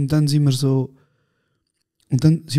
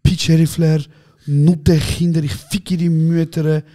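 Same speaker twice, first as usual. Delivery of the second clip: mock angry cursing; 4 dB louder, slower than usual. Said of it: "er so".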